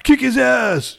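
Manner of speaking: high, loud kick his ass; hammed-up cheering yell; mock shout. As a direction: yell at the screen. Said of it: "scream out at the screen".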